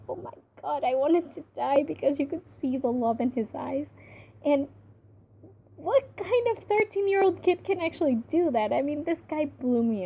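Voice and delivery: gushing excitement. Real, not acted. Gushing about the child actor.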